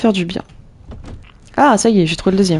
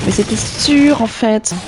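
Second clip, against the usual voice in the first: bimbo voice; 3 semitones higher, much slower than usual. Shown as a demonstration. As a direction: play it like a ditzy airhead. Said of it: "mais c'était sûr avec une voix de pétasse". (voix de pétasse)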